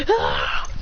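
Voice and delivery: rough, low effort yell; acted battle grunt; attack cry. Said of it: "He goes".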